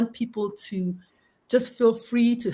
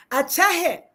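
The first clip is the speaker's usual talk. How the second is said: Hindi phrase; 6 semitones higher, 4 dB louder than usual. Shown as a demonstration. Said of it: "I say it exactly the way she says it".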